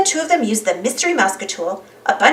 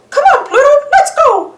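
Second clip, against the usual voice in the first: high, loud cartoon mouse; eager Mickey; 6 dB louder than usual. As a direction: urge the dog along cheerfully. Mickey calling his dog.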